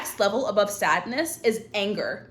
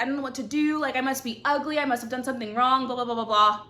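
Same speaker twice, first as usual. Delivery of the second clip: mock self-pity; 3 semitones higher than usual. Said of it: "Don't be like".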